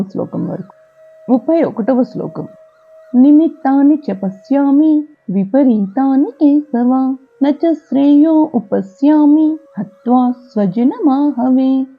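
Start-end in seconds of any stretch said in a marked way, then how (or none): 3.1-11.9 slow, measured Sanskrit shloka chant; verse recitation. Acted. Teacher reciting a Gita verse for learners, measured chant. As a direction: recite the verse in long, drawn-out syllables.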